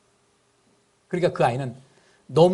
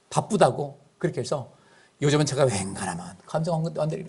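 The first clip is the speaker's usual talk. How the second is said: ordinary talk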